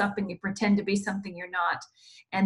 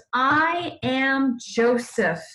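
very slow, stretched-out declaration; dramatic reveal; 3 semitones higher, much slower than usual. A narrator's reading. Joseph revealing himself to his brothers, slow and weighty. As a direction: draw out each word for a solemn reveal. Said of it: "He's crying really loudly".

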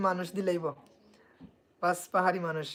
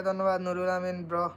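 ordinary delivery

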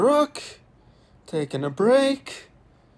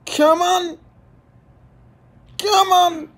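urging loudly; 10 semitones higher, 5 dB louder than usual. Real, not acted.

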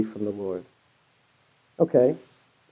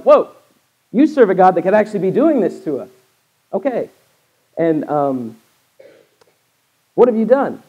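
louder, higher panicked outburst; frightened sailors; 5 semitones higher, 6 dB louder than usual. Acted. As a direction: sailors realising the danger, raising their voices. Sailors realise Jonah's God.

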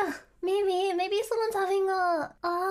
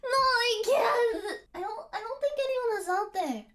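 laughing. Real, not acted. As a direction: laugh through the words. Laughing, losing nerve.

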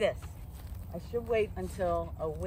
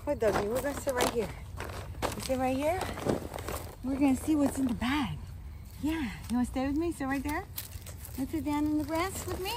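talking to the dog; 5 semitones higher, faster than usual. Real, not acted.

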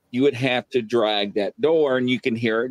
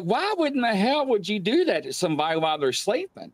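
retold telling-off; 8 semitones higher than usual. Slapped awake, confronting wife and grandmother, retold telling-off. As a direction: act out an outraged question, mildly. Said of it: "I'm going off on 'em".

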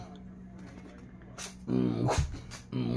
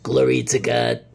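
preaching voice; 9 dB louder than usual. Shown as a demonstration. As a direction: proclaim it like a preacher. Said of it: "Normal voice".

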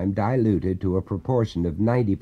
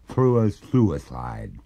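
slow, grave ghostly answer; 4 semitones lower, slower than usual. Acted. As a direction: somber spirit.

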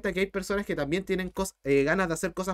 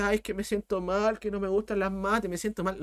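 a softer, whining mock of a sad student; mock whiny student; 4 dB quieter than usual. Teacher mocking a student who says math depresses him, softer whine. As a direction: mimic a moping student, fading off. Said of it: "Si tú te deprimes y dices".

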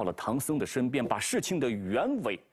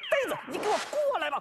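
much higher, fast angry monkey voice; Monkey King snaps; much faster than usual. Acted. Wukong grabs Bajie's ear, sharp and angry. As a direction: yank him over, sharp and quick.

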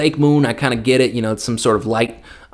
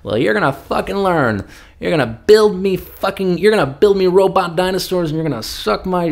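high, brash, bossy rich boss voice; bossy rich sheikh; 5 semitones higher than usual. Retold or imitated. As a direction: bark orders like a spoiled billionaire. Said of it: "Saudi boss continues".

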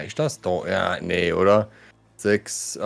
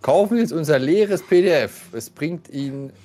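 chipper 1950s ad; 3 semitones higher than usual. Pretend. Mocks ad for PDFs.

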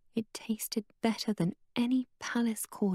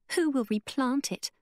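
bitterly; 5 semitones higher than usual. Acted. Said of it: "Mei Lin said bitterly".

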